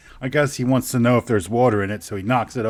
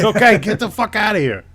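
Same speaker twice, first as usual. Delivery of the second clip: cat voice; 9 semitones higher, 6 dB louder than usual. Pretend. Voicing the sneezing cat.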